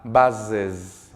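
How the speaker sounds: "buzzes" with a distinct final es syllable; clear ES ending. Shown as a demonstration. Teacher modeling third person for students, "buzzes" with clear es ending. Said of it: "esta E S que suene fuerte y claro".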